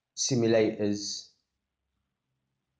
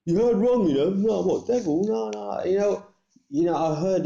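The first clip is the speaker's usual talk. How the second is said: high mock denial; 10 semitones higher, 6 dB louder than usual. Acting out a denying liar.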